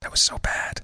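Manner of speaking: hushed, breathy whisper, very close to the mic. Reacting to a bad dad joke, Joe Biden whisper. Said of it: "I'm just going to whisper like Joe Biden".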